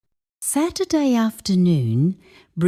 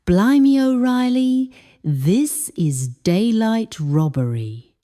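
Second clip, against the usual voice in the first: surprised exclamation; 4 semitones higher than usual. Shown as a demonstration. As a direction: burst out with the Blimey. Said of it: "Try it when shopping".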